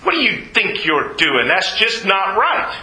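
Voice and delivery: emphatic Southern protest; indignant objection in a Southern accent. Acted. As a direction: lay on a Southern twang, slowing at the end. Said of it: "I really got the southern thing going".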